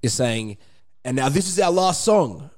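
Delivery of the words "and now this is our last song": slow, higher announcing voice; stage announcement. Retold or imitated. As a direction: announce the last song to the crowd. Quoting his own stage announcement.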